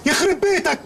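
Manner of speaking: sudden alarmed realisation; gasping disbelief, rushing; shocked outburst. Acted. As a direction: pitch jumps high, words tumbling out fast. Friend spots stolen jar.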